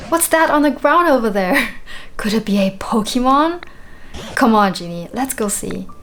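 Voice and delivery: put-on lightly British old character voice; mild British accent for a game character; British accent for Tangrowth. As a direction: read it with a hint of a British accent. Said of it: "a British accent".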